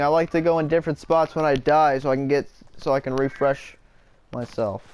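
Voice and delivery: choppy robot-like voice, as if glitching. Real, not acted. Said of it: "You sound like a robot right now".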